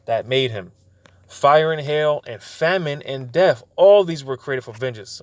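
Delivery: slow, weighty reading of scripture; solemn Bible reading, slowed down. Acted. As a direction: read it out slowly like holy writ. Preacher reads scripture aloud.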